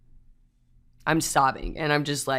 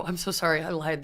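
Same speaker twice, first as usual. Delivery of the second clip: mock confession; 8 dB quieter than usual. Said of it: "And then I go".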